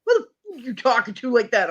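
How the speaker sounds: mock confrontation, starting high; retold angry boyfriend. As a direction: lightly act out a boyfriend's challenge. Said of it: "grab him and be like".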